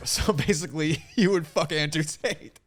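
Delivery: high, loud, laughing through the words; laughing accusation. Real, not acted. Man catching his friend in a contradiction, laughing accusation. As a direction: crack up while pressing the point home.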